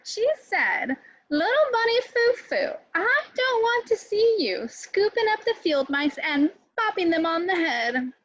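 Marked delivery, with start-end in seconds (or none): 1.3-8.1 fairy voice. Acted. Good fairy voice, scolding.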